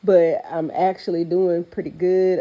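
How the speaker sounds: stuffy, congested nasal voice; blocked nose. Real, not acted. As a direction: talk through a head cold. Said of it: "I sound like Rudolph right now".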